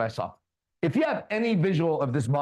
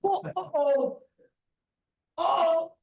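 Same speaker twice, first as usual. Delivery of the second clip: mock falsetto; 14 semitones higher, much slower than usual. Mocking the dazed man.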